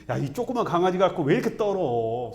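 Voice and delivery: put-on exasperated parent chiding a child; upset parent. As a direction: chide with loving frustration. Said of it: "무서워 떨면 속상하지".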